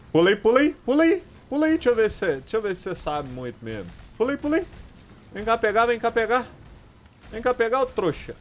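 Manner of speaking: high, loud gleeful jeering; mock the monster, delighted; gleeful taunt. Real, not acted. Gamer taunting the beast after dodging, gleeful.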